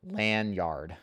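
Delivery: Lanyard said LAN-YARD with a full ah; full-vowel Lanyard. Shown as a demonstration. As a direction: open up the second half of Lanyard to YARD. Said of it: "Lanyard or lanyard?".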